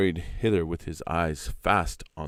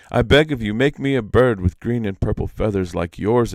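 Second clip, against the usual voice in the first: louder begging plea; imploring Iktomi; 4 semitones higher, 6 dB louder than usual. Acted. Iktomi retakes his plea to the peacock, loud pleading. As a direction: beg the bird earnestly. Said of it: "Dang, that was terrible".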